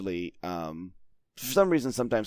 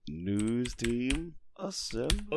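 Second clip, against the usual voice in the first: mock rallying call; 8 dB quieter, much slower than usual. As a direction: summon the team in a distant mock holler.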